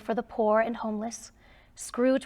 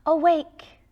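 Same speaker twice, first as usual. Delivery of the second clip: spirit's call; 6 semitones higher, 6 dB louder than usual. Acted. Spirit wakes Scrooge.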